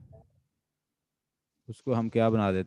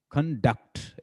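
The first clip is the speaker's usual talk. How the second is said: "कंडक्ट" split, leaning on डक्ट; stress on second syllable; 4 semitones higher, slower than usual. Shown as a demonstration. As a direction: demonstrate verb "कंडक्ट" with stress on DUCT. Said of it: "इस पे जोर देता हूँ".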